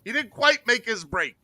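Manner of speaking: slow down to dissect it with put-on gravity. Host mimics a channel analyst dissecting a throw, mock-earnest. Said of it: "Is that good T D impersonation?".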